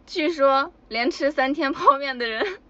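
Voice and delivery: hammed-up ominous retelling, rising at the end; mock horror. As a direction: tell it like a terrifying secret, leaning on 泡. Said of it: "告诉你们这件恐怖的事实啊".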